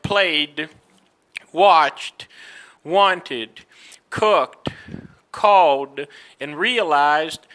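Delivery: played, watched, cooked, called, realized without a vowel in -ed; silent E endings. Shown as a demonstration. Teacher modelling regular past, silent E in played, cooked, called. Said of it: "you don't pronounce the E".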